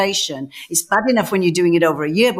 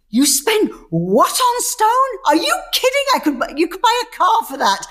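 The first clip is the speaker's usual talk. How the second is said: imitating angry husband; 12 semitones higher than usual. A husband scolding his wife over the stone bill, in mock outrage. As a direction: play the husband aghast at the bill. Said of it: "he would be so angry with me saying".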